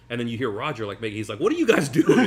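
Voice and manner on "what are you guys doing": high, loud yell of disbelief; imitated indignant shout. Roger calling out to people leaving his show, indignant shout. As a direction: holler it at the crowd, much higher. Roger's reaction to crowd, acted.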